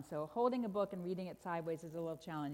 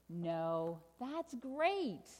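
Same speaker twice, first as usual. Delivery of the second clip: triumphant payoff; much slower than usual. Acted. Storyteller lands the happy ending, triumphant. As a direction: build up to great.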